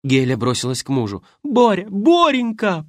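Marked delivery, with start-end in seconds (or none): 1.4-2.9 high, loud cry of her husband's name; wife cries out to her fallen husband, high and loud; anguished cry. Acted. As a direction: scream his name in shock. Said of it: "прокричала она".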